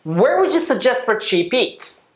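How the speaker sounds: slow, clear model sentence; careful teacher demo pace; slow model read. Shown as a demonstration. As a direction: spell it out slowly for learners. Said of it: "もう一回行きます".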